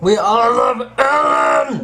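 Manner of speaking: loud, slow, high rally cry; cheering shout. Pretend. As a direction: rouse the crowd for Ellen. Cheering for Ellen.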